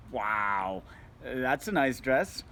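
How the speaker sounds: slow, snide drawl on nice; dripping with mockery; mocking a friend's dress, sarcastic. Shown as a demonstration. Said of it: "Now you're being a dick".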